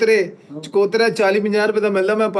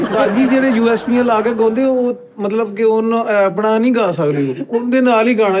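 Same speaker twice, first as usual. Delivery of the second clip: excited question; 3 semitones higher, 4 dB louder than usual. Real, not acted.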